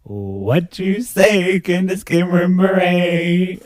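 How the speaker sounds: slow high robotic voice. Acted. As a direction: drag it out like a robot. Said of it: "do it as a robot".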